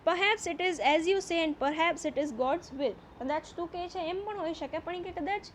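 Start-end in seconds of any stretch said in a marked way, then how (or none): 0.1-2.9 slow, deliberate reading aloud of the English text; slow story reading. A narrator's reading. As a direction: read each phrase slowly, as a teacher before translating. (ધીમે ધીમે વાર્તાનું વાંચન)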